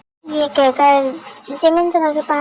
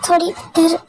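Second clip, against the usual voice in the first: timid confession; 2 semitones higher than usual. Acted. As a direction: confess shyly. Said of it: "इतना डरी हुई क्यों". (हल्की डरी, झिझकती आवाज़)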